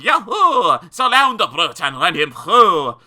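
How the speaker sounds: loud charging mob; war shout. Acted. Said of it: "they shouted".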